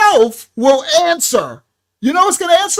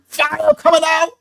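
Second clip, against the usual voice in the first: shouted rah with a raised voice; mock yell; 5 semitones higher, 3 dB louder than usual. Preacher recalling his old temper, mock yell. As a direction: bark it like a hothead New Yorker. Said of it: "I'm yelling".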